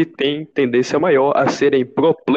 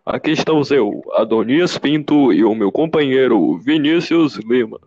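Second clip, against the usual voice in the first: podcast host voice. Acted. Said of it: "Ficou diferente pra caralho".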